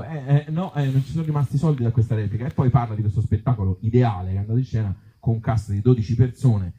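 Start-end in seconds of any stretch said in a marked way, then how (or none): 0.0-2.5 higher, quicker mock moaning about money; a mild mock lament over the lost takings; whiny complaint. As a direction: imitate a grumbling actor, hammed up lightly. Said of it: "uno che appunto si lamenta del fatto".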